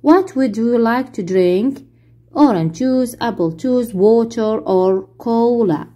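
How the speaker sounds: each English word spelled out slowly for the class; very slow model reading. Shown as a demonstration. Teacher playing flight attendant, very slow model question. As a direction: read it slowly so pupils can repeat. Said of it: "المضيف يسأل المسافر".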